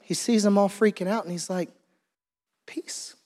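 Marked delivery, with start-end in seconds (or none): 2.7-3.1 whispered command of peace; hushed single word; not a shout. Retold or imitated. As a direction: barely voice it, calm amid panic. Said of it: "I don't think it was a shout".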